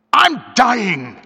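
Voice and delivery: loud, high, broken cry; a cracked cry of a dying man; sick man crying out in a broken voice. Acted. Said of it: "in a broken voice".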